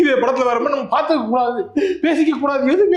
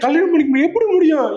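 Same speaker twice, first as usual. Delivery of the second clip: hammed-up disbelief; 6 semitones higher than usual. Boyfriend protesting marriage.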